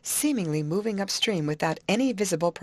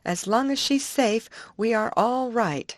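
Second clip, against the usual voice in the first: kindly; 5 semitones higher than usual. Acted. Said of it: "said Betty kindly".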